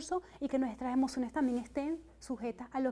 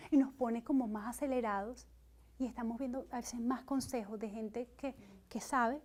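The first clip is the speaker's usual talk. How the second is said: ordinary delivery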